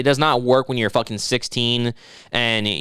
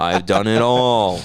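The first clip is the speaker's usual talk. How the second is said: imitating Mike; 2 semitones lower, much slower than usual. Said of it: "He's like".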